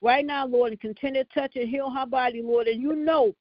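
prayer cadence, calling on Lord; fervent prayer. Acted. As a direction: pray it out with fervor. Leads the prayer line.

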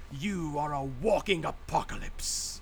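slow, grand snooty British delivery. Retold or imitated. Game AI praising a multi-kill, imitated in snooty British accent. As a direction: intone it slowly in a put-on British accent. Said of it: "he goes".

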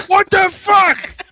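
high, loud, drawn-out shriek of outrage; retold shout. Man yelling at the woman pumping gas, retold shout. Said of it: "I yell at her".

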